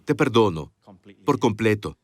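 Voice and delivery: low, gentle full pardon; tender, sincere forgiveness. Shown as a demonstration. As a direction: say it to lift all guilt.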